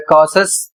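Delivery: कॉशस with T said as श; model pronunciation. Shown as a demonstration. Teacher models cautious for students, clearly. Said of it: "इसे पढ़ा जाएगा".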